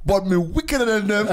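put-on light Jamaican accent, laughing; imitating a Jamaican accent. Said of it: "like, in a Jamaican accent".

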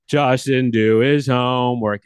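the whole class jeering, growing. Retold or imitated. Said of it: "It gets louder and louder and louder".

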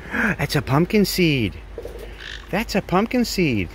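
gasp, then slow, drawn-out words; mock amazement for pet. Real, not acted. Owner showing a pet its pumpkin seed, slow wonder. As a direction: spell out the find slowly for a pet. Marvelling at a pet's find.

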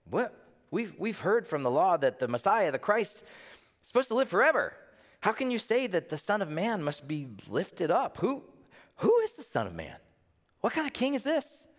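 the crowd pushing back in disbelief; puzzled crowd. Retold or imitated.

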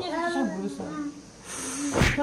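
talking while eating chicken; mouth full, chewing. Real, not acted. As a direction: chopsticks at the lips. Seen 2: Eats with chopsticks at lips, chewing while speaking throughout clip.

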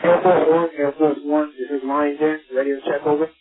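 tinny radio transmission; over walkie talkie. Real, not acted. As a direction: voice through a handheld radio. Distant station calling over radio.

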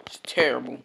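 whispered defeat; whispered self-pity. Real, not acted. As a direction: breathe it out unvoiced. Heard whisper.

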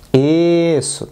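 normal talking voice

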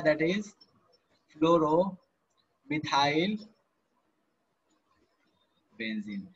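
very slow, each word stretched for notes; drawn-out dictation. Shown as a demonstration. Teacher dictating the name to the class, very slowly drawn out. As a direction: spell it out slowly so students can write.

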